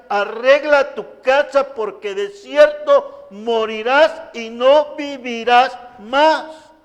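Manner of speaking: slow, loud, grave proclamation; solemn prophet's warning. Retold or imitated. Prophet warning King Hezekiah of his death, slow and loud. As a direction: deliver the death sentence like an ancient prophet. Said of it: "el llamado del profeta al rey".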